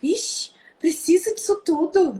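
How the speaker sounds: a hint of an aunt questioning the strictness; disapproving aunt. Aunt questioning the mother's strictness, mildly disapproving. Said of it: "a minha tia falava assim".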